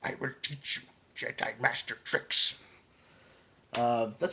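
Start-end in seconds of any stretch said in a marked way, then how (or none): 0.0-2.6 lightly voiced Yoda; a hint of the little Jedi master; mild Yoda impression. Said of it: "the Yoda voice".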